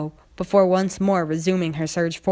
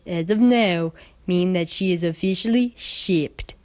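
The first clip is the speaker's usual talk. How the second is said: formal stallion. Acted. Agent formally addressing Applejack, lightly voiced. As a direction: state it like an official.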